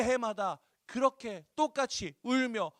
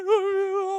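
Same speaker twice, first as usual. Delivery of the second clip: mock whimper; 11 semitones higher, 7 dB louder, much slower than usual. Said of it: "하면서 막 밥도 못 먹고".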